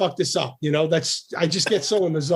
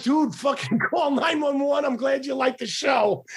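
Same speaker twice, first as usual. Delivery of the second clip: urgent shout; 8 semitones higher than usual. Retold or imitated. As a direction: shout it like a panicked plea. Retold own line, mock plea.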